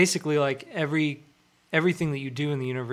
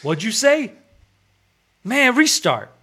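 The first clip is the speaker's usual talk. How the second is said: loud, high mock street-tough voice; hammed-up gangster on a support call; gangbanger tech support; 10 semitones higher, 9 dB louder, slower than usual. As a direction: play a brusque helpdesk ex-gangster. Acting gangbanger doing tech support.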